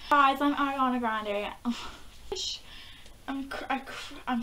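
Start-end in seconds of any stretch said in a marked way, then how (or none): none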